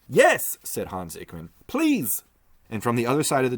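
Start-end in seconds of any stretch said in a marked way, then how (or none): 0.1-0.6 higher and louder; eager shout. Acted. Hans joins the pleas. 1.7-2.2 higher and louder; eager shout. Acted. Hans joins the pleas.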